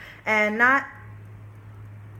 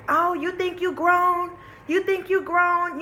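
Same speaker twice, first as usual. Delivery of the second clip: taunting aunt; 5 semitones higher, slower than usual. Retold or imitated. Tipsy aunt confronts the child.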